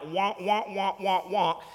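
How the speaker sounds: lightly mimicked muted-trombone wah wah; a mild mock of the cartoon adult babble; Charlie Brown teacher noise. Preacher mocking how the gospel sounds to deaf ears, light wah-wah. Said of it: "hearing Charlie Brown like".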